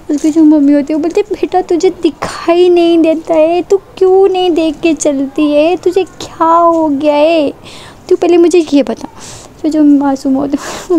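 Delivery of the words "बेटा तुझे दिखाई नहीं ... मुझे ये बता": higher, slow, nagging scold; a lightly voiced mom demanding answers; scolding mother. Mother scolds daughter again. (बेटी को धीरे-धीरे डाँटती माँ, हल्की ऊँची आवाज़)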